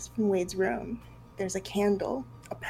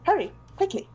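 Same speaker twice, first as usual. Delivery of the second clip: put-on urgent, higher Italian accent; 7 semitones higher, 5 dB louder than usual. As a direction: hurry him along in Italian accent. Wade urging, louder.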